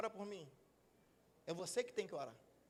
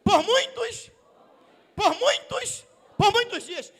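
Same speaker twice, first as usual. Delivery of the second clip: loud, raised call to the congregation; rallying call-out; 5 semitones higher, 9 dB louder, slower than usual. Real, not acted. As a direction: get the crowd to repeat it. Preacher has crowd repeat after him.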